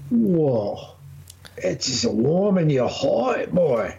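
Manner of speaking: put-on slow, drawn-out folksy old man; mock old-timer. Toasting his co-host's whisky, slow mock old-timer. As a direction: lay it on like a grizzled elder.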